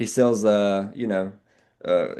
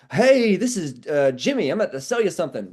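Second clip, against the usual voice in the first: fake enthusiasm; 8 semitones higher than usual. Mocking a cheesy salesman's phony enthusiasm on a call. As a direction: overdo the chipper pitch as a bad example. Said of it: "That's not what we're talking about".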